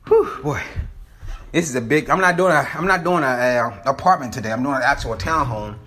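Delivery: winded from climbing stairs; out of breath from the steps. Real, not acted. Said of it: "sound like I'm out of breath".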